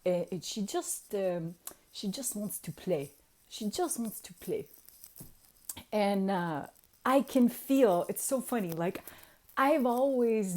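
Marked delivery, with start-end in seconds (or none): 0.0-4.7 lightly voiced accented wizard; understated accented impression; imitated wizard. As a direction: imitate the mentor's accent, explaining gently. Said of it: "He goes".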